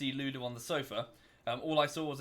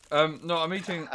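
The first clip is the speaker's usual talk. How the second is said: chewing while talking; speaking through a mouthful; mouth full; 4 dB louder than usual. Real, not acted. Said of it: "What are you eating".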